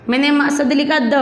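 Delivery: ordinary talk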